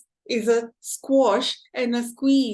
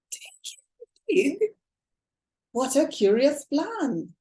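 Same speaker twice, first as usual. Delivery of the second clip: incredulous; 4 semitones higher than usual. Acted. Old lady doubts the advice.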